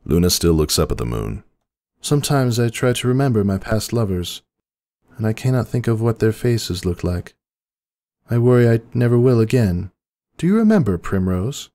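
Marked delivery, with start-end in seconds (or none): 2.0-11.7 much higher, concerned younger sister; a high, fretful princess voice; Luna's worried voice. A narrator's reading. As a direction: ask with anxious care. Luna voiced in story.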